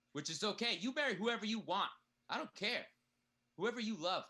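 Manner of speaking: emphatic. Acted. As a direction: insist it loudly. Loud emphatic reassurance.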